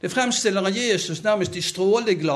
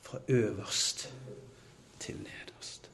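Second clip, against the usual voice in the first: softer, dropping to a whisper; hushed awe; 6 semitones lower, 12 dB quieter, much slower than usual. Acted. Preacher telling of the torn temple curtain, hushed to a whisper. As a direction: let it fade into a whisper.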